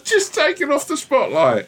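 very high, slow mouse voice; rubbery high squeaky toy. Pretend. Voicing the mouse.

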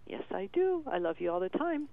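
put-on eager toddler reply, high on yes I do; a hint of a small child; little son's voice. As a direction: lightly voice a two-year-old insisting. And he'd say.

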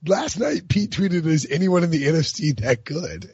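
high-pitched, on the edge of laughter; amused excitement. Real, not acted. Podcast host shares a funny tweet, about to crack up. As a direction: barely get it out before laughing.

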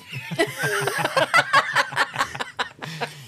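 high breathy burst of laughter; big laugh. Real, not acted. Cracking up at the idea of punching G.

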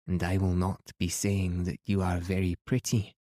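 put-on proud old Highland Scotswoman, a light lilt; lightly voiced Highland woman, dignified and grand; Highland accent. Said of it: "full of delightful Highland accent".

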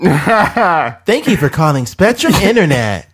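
slow, high automated phone greeting; phone menu voice. Retold or imitated. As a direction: read it like a cable company menu. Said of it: "sound like he worked for Spectrum".

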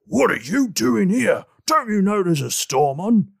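stern officer barking a warning; an official shouting over the storm. Acted. GM voices uniformed officer.

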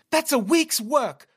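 slow, high mock British upset line; mock British mom. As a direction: ham up a prim British mother's lament. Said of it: "she's really upset".

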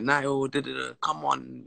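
put-on light French accent, slowing on come on; a hint of a French teammate urging him on. French teammate gees up young Niall, lightly French-accented. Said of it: "like, in his French accent".

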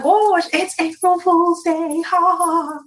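dry sarcastic ha ha ha; sarcastic fake laugh. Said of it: "And I'm like".

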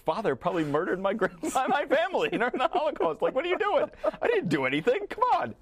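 high-pitched, mock-outraged squawk, half laughing; indignant protest. Student objecting to teacher's blame, hammed-up indignation. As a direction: protest in disbelief, voice leaping way up.

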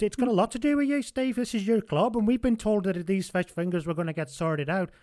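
Humphries voice. Retold or imitated. Humphries voiced, much higher.

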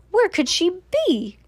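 high-pitched questioning; puzzled wondering. A narrator's reading. Woman searching for missing sister, high puzzled question. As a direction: wonder aloud with pitch lifted.

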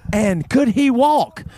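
high-pitched imitation of a marvelling old lady; hammed-up wonder; retold excited bragging. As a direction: quote her boasting, high and eager. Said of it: "Then she says".

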